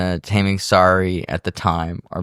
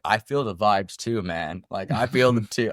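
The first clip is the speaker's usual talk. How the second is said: mock spooked mumble; 6 dB quieter than usual.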